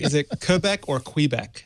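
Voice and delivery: first Quebec as "kuh-BEK", then "kwee-BEK"; two Quebec pronunciations. Shown as a demonstration. Guest raising another debate, contrasting two Quebecs. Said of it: "I know it's not Quebec".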